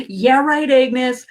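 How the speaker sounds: scoffing disbelief. Retold or imitated. Past self scoffing at her angels, mock disbelief. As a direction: brush it off with a scoff. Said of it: "I would have laughed".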